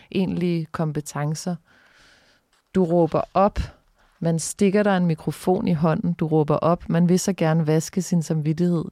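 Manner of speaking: measured, pointed recital of an accusing text; accusatory second-person text read steadily; literary reading aloud. Acted. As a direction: read it out line by line, with firm phrasing. Reads own text aloud.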